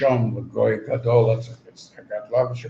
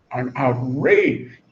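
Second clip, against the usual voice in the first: mock outrage; 2 semitones lower, much slower than usual. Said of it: "giving me mussar".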